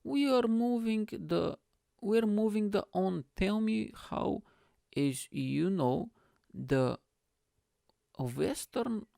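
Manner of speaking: high, slow dad voice; halting, high-pitched mock dad; dad impression. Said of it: "My dad goes".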